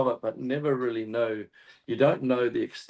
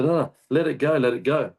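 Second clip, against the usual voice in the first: raised, urgent yell of let it go; retold yell; 4 semitones higher, 5 dB louder than usual. Telling his mate on the boat to let go, urgent raised yell. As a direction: yell at him to drop the rope. Yelling at mate to release rope.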